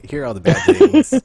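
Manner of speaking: squeaky gleeful reveal; high mock announcement. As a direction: pitch it up like a gloating game. Game voiced showing consequences.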